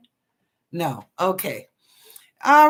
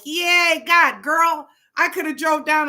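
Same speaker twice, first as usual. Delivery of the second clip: excited; 6 semitones higher, 5 dB louder than usual. Retold or imitated. Telling cousin she'd have visited.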